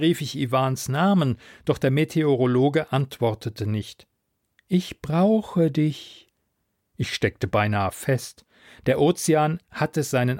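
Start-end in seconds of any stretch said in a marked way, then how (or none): 4.7-6.3 slow, higher otherworldly plea; slow alien need. Acted. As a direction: drag each word out like the sea. Alien sea mind speaks.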